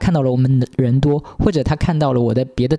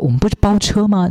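higher, challenging; indignant question; 8 semitones higher than usual. Retold or imitated. The model challenging the driver, sharply raised. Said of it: "那女模特就说".

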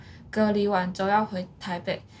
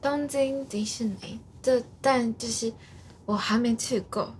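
put-on Japanese accent. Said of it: "我很会学日本人讲中文".

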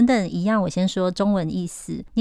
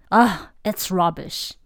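scornful; slower than usual. Shown as a demonstration. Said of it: "像这样".

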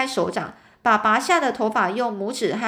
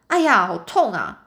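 a sharp, pained yelp, only mildly louder; cry of pain; 2 semitones lower, 3 dB louder than usual. Retold or imitated. Red-haired man yanks out his hair, he yelps in pain. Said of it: "我就痛得大声喊叫".

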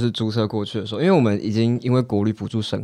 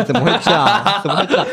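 louder, half-laughing alarm; retold panic over the warning lights; mock panic; 4 semitones higher, 5 dB louder than usual. Retelling car breakdown panic.

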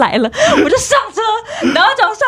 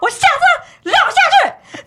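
defiant; 10 semitones higher, slower than usual. Retold or imitated. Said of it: "然后我就说".

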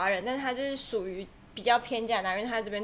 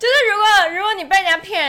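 laughing through words; 9 semitones higher, 11 dB louder, faster than usual. Real, not acted. Talking while laughing hard.

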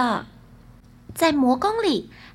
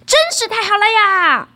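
loud, high, whooping cry; gleeful shout; 7 semitones higher, 7 dB louder than usual. A narrator's reading. Son riding the galloping bed, shouting in delight. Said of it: "大儿子大喊".

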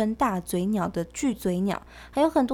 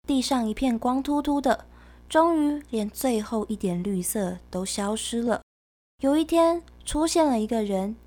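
put-on reading to a toddler; 2 semitones higher than usual. Reads the picture book story.

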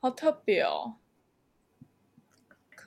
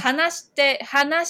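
話 said loud and high at the start; stress on 話; 3 semitones higher, 3 dB louder, slower than usual. Shown as a demonstration. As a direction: hit the 話 in 話して. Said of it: "这三个字会最大声就对了".

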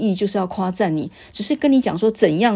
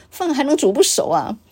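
usual speaking voice

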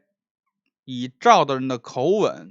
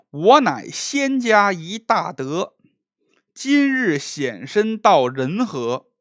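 solemn verse recital; slower than usual. Acted. Reading the ghostly verse.

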